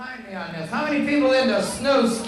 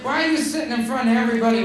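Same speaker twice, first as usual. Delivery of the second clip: calling out; 4 dB louder than usual. Real, not acted. Calling out a smoker in audience.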